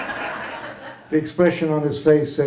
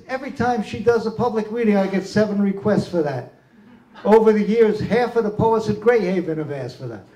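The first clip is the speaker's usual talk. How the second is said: higher-pitched, harried justification; acted exasperated explanation; 6 semitones higher, faster than usual. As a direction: argue back as an overworked genie. Acts harried genie explaining refusal.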